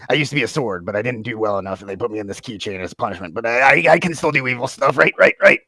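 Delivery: sentient evil guppy keychain, pleading. Acted. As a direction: plead your case, ending in eager insistence.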